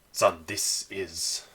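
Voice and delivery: slow, hesitant start; stumbling over words. Acted. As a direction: ease haltingly into an awkward introduction. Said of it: "stumbling over his words a little bit".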